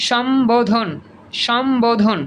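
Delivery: সম্বোধন with a clear b after m; ব sounded. Shown as a demonstration. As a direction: say সম্বোধন as shom-bo-dhon. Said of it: "এই ব ফলা উচ্চারিত হবে".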